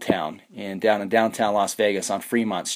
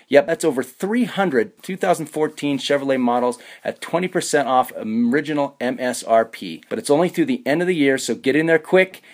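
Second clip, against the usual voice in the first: upbeat sponsor read, pitched a little up; radio ad read; 3 semitones higher than usual. Acted. Host reads the Chevrolet sponsor segment to listeners, ad read. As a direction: read it like a local car dealer spot.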